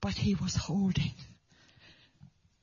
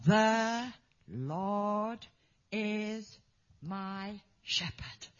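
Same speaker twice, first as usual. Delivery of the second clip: the Lord is my shepherd, said slowly, fading soft; slow, gentle, fading to a hush; slow soft recitation; 3 semitones lower, much slower than usual. Retold or imitated. Evangelist teaching the boy, slow soft recitation. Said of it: "And then he'd say".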